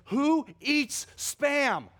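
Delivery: high, slow, drawn-out disgust; mock the roommate's outrage. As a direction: roommate catching him cooking Spam, high disgusted voice. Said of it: "He said".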